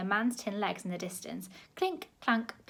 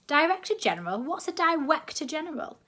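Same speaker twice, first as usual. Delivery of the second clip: higher, louder mock query; mocking title; 8 semitones higher, 5 dB louder than usual. A narrator's reading. Grandma sneering at the director general title.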